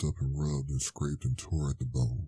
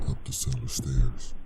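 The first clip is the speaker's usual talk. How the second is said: whispered, creeping; eerie whisper. Acted. Narrator whispering the haunt's climb, eerie. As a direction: breathe it like something climbing in the dark.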